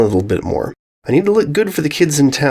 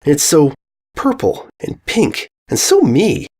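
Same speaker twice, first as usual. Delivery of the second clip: gushing; 3 semitones higher, slower than usual. A narrator's reading. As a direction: swoon over her own castle. Gushing about her castle.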